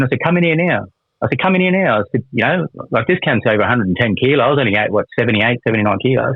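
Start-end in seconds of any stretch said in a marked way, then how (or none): 0.2-0.8 higher, defiant call at the officer; retold shouted challenge. Challenging officer through cell door. 1.4-2.0 even higher, insistent call; retold shouted challenge, pushed higher. Challenging officer through cell door.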